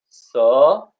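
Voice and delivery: सह as two long, loud syllables, sa-ha; full "ha" in सह. Shown as a demonstration. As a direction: voice the ह in सह fully, with its own vowel. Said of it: "दोनों में अ है".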